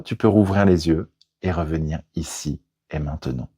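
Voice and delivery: guiding voice lifting on each number; hypnosis count-out. Acted. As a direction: bring them gently back awake. Counts listener out of trance.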